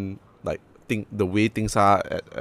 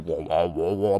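low, soft imitation didgeridoo drone; mock didgeridoo wobble, low in the voice; welcoming didgeridoo; 6 semitones lower, 6 dB quieter, slower than usual. Shown as a demonstration. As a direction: vocalise a gentle didgeridoo. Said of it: "not a welcoming didgeridoo".

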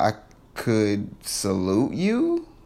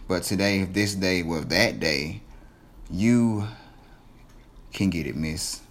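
flirty; 5 semitones lower than usual. Pretend. Flirting with host Jazz.

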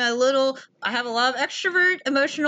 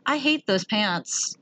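mock disapproval; slower than usual. Quoting grandma's tactless first remark.

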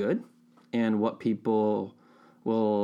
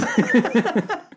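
loud, high laugh bursting out; high burst of laughter; 12 semitones higher, 6 dB louder than usual. Real, not acted. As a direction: let a loud laugh break out.

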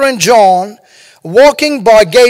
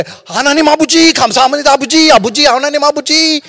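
rapid, fervent, higher-pitched prayer in Korean; imitating Korean prayer; 4 semitones higher, much faster than usual. Mimicking Korean prayer warriors, fast and fervent. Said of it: "Koreans know how to pray".

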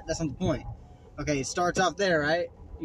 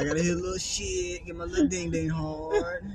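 mocking creep voice; 4 semitones higher than usual. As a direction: squeak it out like a creep. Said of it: "boy said, boy said".

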